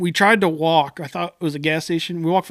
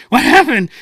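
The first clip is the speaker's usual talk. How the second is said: much higher, louder stranger's voice; crackhead stranger; 8 semitones higher, 10 dB louder than usual. Retold or imitated. Stranger pulls up to stranded guys, much higher and louder. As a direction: play the wired stranger in the minivan.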